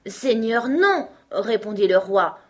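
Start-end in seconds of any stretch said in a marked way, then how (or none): 0.1-1.1 high, loud protest; appalled exclamation. A narrator's reading. King dismisses Alice's question about the crown, appalled. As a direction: jump up in pitch on the refusal.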